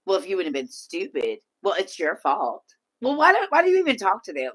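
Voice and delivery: mock the daughter's harsh scolding; brutal daughter. Imitating brutal Libra daughter.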